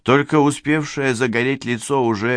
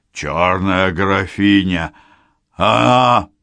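slow, louder dying cry; dying old man's cry; 5 dB louder, slower than usual. Acted. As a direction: force out the last words. Grandfather's last cry.

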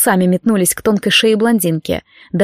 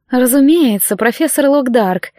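cooing; 3 semitones higher than usual. Acted. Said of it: "проворковала она".

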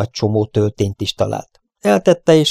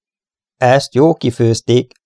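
cursing; 3 semitones higher, 3 dB louder, slower than usual. Acted. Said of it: "szitkozódott".

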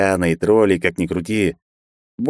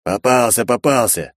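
pleased; 4 semitones higher than usual. A narrator's reading. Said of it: "довольно сказал второй голос".

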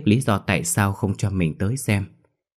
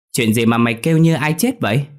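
breathless question; 5 semitones higher, 5 dB louder than usual. Acted. Lai runs in asking.

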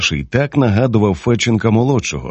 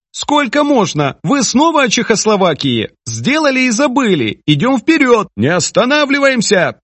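put-on much higher, peeved older woman's voice; annoyed Tamara; 12 semitones higher than usual. Tamara grumbles at the men arguing about Czechoslovakia, exasperated. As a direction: scold them as a fed-up wife would. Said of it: "прокинулась і скривилася".

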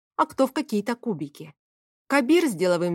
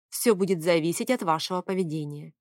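plain reading voice

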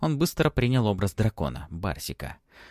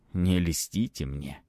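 slow sincere; 3 semitones lower, slower than usual. Acted. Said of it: "ответил он без сарказма".

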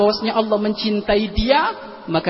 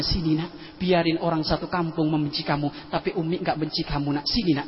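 tender mother; 6 dB quieter than usual. Retold or imitated. Mother comforting her disgraced child.

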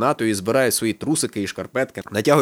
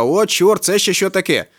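high, louder cry of alarm; startled cry; 7 semitones higher, 4 dB louder, slower than usual. A narrator's reading. Woman seeing the bust beside her, startled cry. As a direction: read her outcry high, short of screaming. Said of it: "кричить вона".

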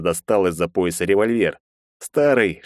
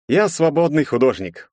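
smiling; 7 semitones higher than usual. A narrator's reading. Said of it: "улыбнулся он".

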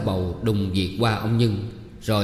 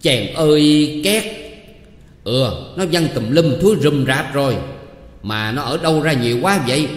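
disgusted outcry; 4 semitones higher, 4 dB louder than usual. Acted. Official finds filth on his face, loud disgusted cry. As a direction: wail at the mess flying everywhere. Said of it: "kêu lên".

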